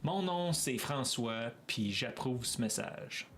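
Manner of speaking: French as spoken in France; accent from France. Shown as a demonstration. Streamer imitating French from France for viewers, accent from France. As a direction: put on a metropolitan French accent. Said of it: "French from France, I would say".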